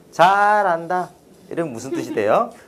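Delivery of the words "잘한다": sarcastic, mocking, ironic jeer on 잘한다. Showing how voice tone flips a word's meaning: sarcastic 잘한다. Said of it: "완전 반대 뜻이 됩니다".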